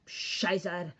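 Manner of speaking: put-on playful angry German accent; mock angry German. Showing off German to people, mock-angry German accent. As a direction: spit it out as a pretend German rant. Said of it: "going like an angry German rant".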